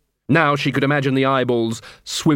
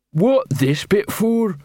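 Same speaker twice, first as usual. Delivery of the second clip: very slow, dim troll question; 7 semitones higher, much slower than usual. Acted. Detritus troll voice.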